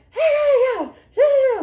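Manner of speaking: high, loud, laughing squeal. Retold or imitated. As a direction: squeal through laughter at the mess. Coworker cracking up at scene.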